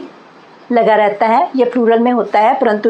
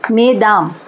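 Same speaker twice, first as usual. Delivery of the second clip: French-style मेदाम; French word; 2 semitones lower, slower than usual. Shown as a demonstration. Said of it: "इसमें एस नहीं बोलेंगे क्योंकि ये French शब्द है". (मेदाम फ्रेंच ढंग से, बिना एस)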